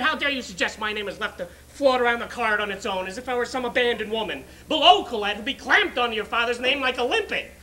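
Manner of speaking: wounded, scandalised protest; indignant mother. Acted. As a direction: take offence and build to a loud peak. Acts out mother's indignant phone tirade.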